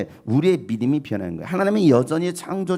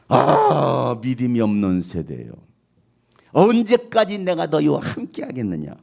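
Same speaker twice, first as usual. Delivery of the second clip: sighing lament; 3 semitones lower, slower than usual. Acted. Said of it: "한숨이 한숨".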